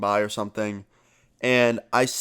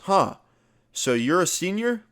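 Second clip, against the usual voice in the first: skeptical cop; 7 semitones higher than usual. Retold or imitated. Cop doubting Alex's senior claim.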